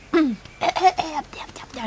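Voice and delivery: sudden cough to clear throat. Real, not acted. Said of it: "j'ai un truc dans la gorge".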